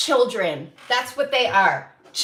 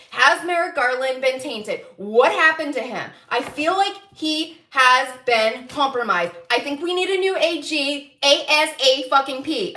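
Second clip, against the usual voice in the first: usual speaking voice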